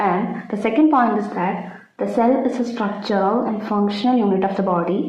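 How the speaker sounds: slow, careful dictation pace. Acted. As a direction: spell it out for notes, slowly. Dictating cell theory point. (പതുക്കെ പറഞ്ഞുകൊടുക്കുന്ന രീതി)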